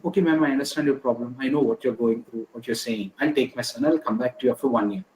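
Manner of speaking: mildly calm, even retelling. Retold or imitated. Father answering the principal about his angry son, mildly calm. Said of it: "The father very calmly said".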